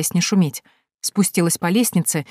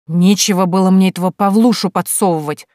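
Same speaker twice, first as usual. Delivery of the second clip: angry exclamation; 5 dB louder than usual. Acted. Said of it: "зло воскликнула девушка".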